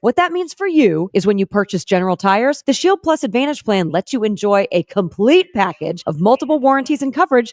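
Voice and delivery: smooth steady commercial read. Acted. Host reading the General Tire sponsor ad, steady ad read.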